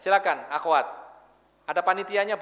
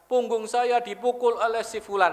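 mock sobbing child; 4 semitones higher, slower than usual. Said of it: "sesenggukan nangisnya sambil mengatakan".

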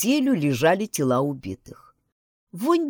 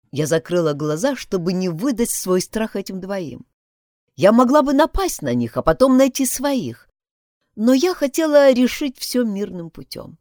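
ordinary delivery

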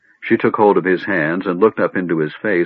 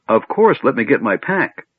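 high, eager and quick; eager kender; 5 semitones higher than usual. Acted. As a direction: bounce with eagerness.

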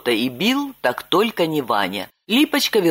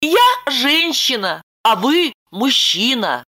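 put-on high young woman's voice, lightly eager; Lipochka reassuring; 8 semitones higher, 3 dB louder than usual. A narrator's reading. Lipochka telling Roman the bandit left, high voice. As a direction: pitch up into Lipochka.

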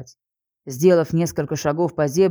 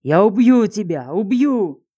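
louder enraged threat, rising on the repeat; angry shout; 4 semitones higher, 4 dB louder, slower than usual. Acted. The prisoner shouts after her as she walks out, enraged. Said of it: "его охрипший от злости крик".

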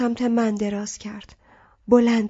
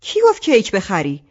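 bristling; 5 dB louder than usual. Acted. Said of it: "مامان براق شد".

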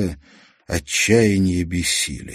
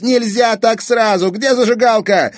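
put-on high, loud anxious boy; urgent alarm; 5 dB louder than usual. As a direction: plead in a panic. Kazik alarmed.

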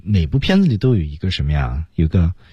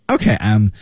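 "OK, I'm" dropping, left unfinished; falling tone. Shown as a demonstration. Teacher shows learners an unfinished "I'm", falling. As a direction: let "I'm" fall and hang. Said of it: "就降调".

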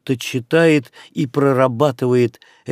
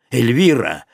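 торжественно. Acted. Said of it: "торжественно произнёс он".

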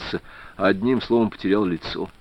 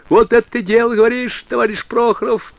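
joyful shout; 11 semitones higher than usual. A narrator's reading. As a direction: yell it out in pure joy. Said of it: "Радостно заорал Суворов". (радостно заорать)

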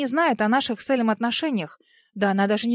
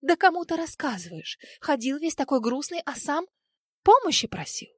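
scolding; 5 semitones higher than usual. A narrator's reading. Ali scolding Dar.

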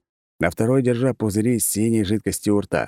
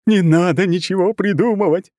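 high, loud shout mid-spin; shouting from afar; 11 semitones higher, 5 dB louder than usual. Acted. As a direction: call out over the battle noise. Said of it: "донеслось Рюкина из крутящегося вихря".

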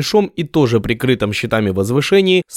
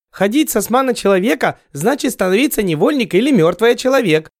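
doomed; 10 semitones higher than usual. Acted. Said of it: "обречённо вздохнул Сядзы".

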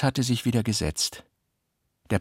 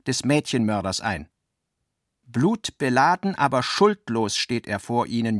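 pathetic manifesto reading; 3 semitones higher than usual. A narrator's reading. Narrator reading the manifesto aloud to the guest, declaiming with pathos. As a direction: proclaim it like an avant-garde manifesto. Reads out an avant-garde manifesto.

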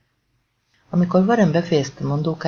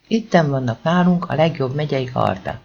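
a lightly voiced Hungarian country-bumpkin accent, mocking; mock rural accent. The speaker mocking the press's view of locals, rural Hungarian accent. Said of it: "utánozta a vidéki kiejtést".

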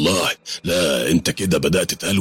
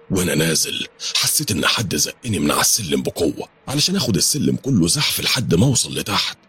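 ordinary delivery, nothing marked

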